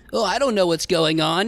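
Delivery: a light parody of a clueless anime protagonist; mock anime character. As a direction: play a naive anime boy, lightly mocking. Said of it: "some fucking anime character that's just like".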